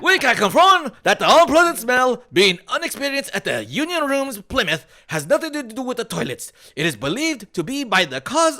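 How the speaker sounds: statement read in a hammed-up British accent; bad British accent. Host mockingly reads the pub's statement in a British accent. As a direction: read it like an old British guy at the bar. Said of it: "is that the worst U K accent ever".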